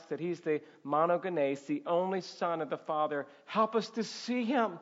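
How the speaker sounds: measured, earnest pastoral prayer; closing prayer. Real, not acted. Pastor thanking the Father for his word, prayerful and earnest.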